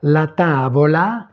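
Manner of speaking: "La tavola" pronounced carefully in Italian; teacher modelling "La tavola" clearly; Italian pronunciation demo. Shown as a demonstration. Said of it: "prononcer les mots". (prononcer « La tavola » distinctement à l'italienne)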